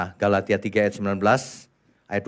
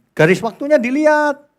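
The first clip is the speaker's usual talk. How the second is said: insistent shout; 13 semitones higher, 7 dB louder than usual. Real, not acted. Preacher insisting on timeline.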